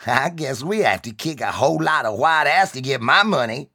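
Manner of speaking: loud, high gleeful threat; giddy. Acted. Leader gleefully telling his followers they'll fight. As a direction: relish the coming fight. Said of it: "said giddily".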